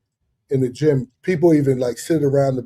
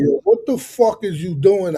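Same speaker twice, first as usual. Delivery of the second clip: irritated coach; 3 semitones higher, 4 dB louder than usual. Retold or imitated. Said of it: "I lost it".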